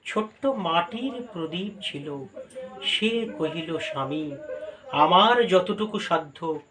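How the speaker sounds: কবিতা আবৃত্তির ভঙ্গিতে ধীরে; poem recitation. Acted. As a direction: recite the poem gently and slowly.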